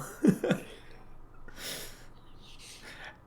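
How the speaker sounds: long, deep acted chuckle; Gasper's deep chuckle. Game master shows Gasper amused by Calder, deep chuckle. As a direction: let a deep, breath-heavy chuckle roll out. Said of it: "He's just a very deep chuckle".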